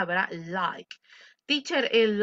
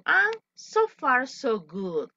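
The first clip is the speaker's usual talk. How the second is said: high model line; 3 semitones higher, much slower than usual. Shown as a demonstration. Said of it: "¿Qué significa esta expresión?".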